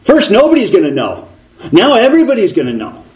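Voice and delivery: Satan shouting his accusation, a mild mock yell, fast. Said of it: "now he's shouting".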